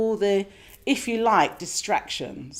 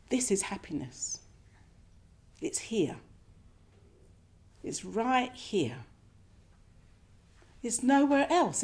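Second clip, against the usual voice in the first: soft hushed whisper; whispered realisation; 3 semitones higher, 5 dB quieter than usual. Retold or imitated. Meditator realising happiness in the moment, hushed whisper. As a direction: breathe it out in awe.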